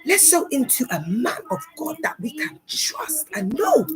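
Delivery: light pulpit cadence urging donations, hushed at the end; mock preacher appeal. Mocking a preacher asking the flock to give money. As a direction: coax the congregation to sow into the ministry. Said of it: "they'd be like".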